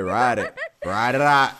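cheering on. Real, not acted. Cheering on someone in clip.

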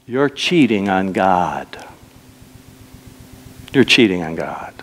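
low, half-whispered reproach; hushed accusation. Acted. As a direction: drop low and husky to accuse them gravely. Preacher's hushed accusation to congregation.

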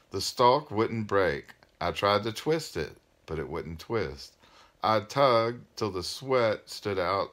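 measured read-aloud with phrase-end pauses; story narration. A narrator's reading. Parent reading a novel aloud to listeners, storytelling.

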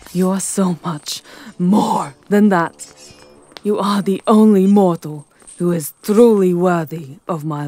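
lightly voiced vampire king, possessive and proud; menacing vampire lord. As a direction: loom over her, savouring every word.

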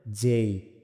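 যেই drawn out with a falling glide; careful, isolated যেই; correct letter J. Shown as a demonstration. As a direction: model যেই slowly, ending on "i". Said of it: "সঠিক উচ্চারণ হবে".

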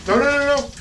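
loud high no; firm shout. Real, not acted. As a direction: call them off, sharp and loud. Stopping the dogs again.

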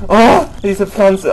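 slow, loud startled cry; drawn-out startled oh. Real, not acted. Startled by plant.

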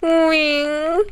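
drawn-out whiny 우잉; mock whining. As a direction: stretch out a whiny 우잉. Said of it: "맨날 우잉 하면서". (우는소리 흉내)

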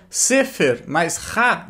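Sefer mais Ra said very slowly, word by word; slow explanation. Shown as a demonstration. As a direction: spell out Sefer mais Ra for students. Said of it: "Mas não".

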